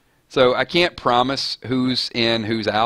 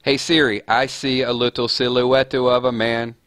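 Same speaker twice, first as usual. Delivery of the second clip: measured, deliberate prompt to a device; voice assistant command; 2 semitones higher than usual. Shown as a demonstration. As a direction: address a voice assistant, drawing out the line. Gives voice assistant a lyric prompt.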